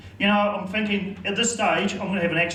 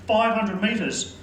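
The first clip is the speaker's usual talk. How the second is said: teasing slow count; 3 semitones higher, much slower than usual. Acted. Friend teasingly counts out the distance.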